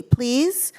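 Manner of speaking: a hint of a small child begging; pleading. Doctor begs the child for his belly button, pleading.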